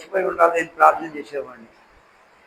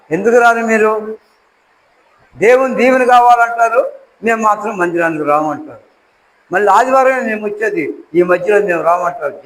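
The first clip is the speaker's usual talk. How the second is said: scolding sermon; 3 dB louder than usual. Acted. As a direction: chide them for staying away. Rebuking the congregation. (సంఘాన్ని గట్టిగా గద్దిస్తూ బోధ)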